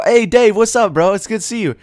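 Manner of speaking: loud, high, hearty acted hello; enthusiastic greeting. Greeting your friend Dave in a restaurant, enthusiastic. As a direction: call out high and loud to a buddy.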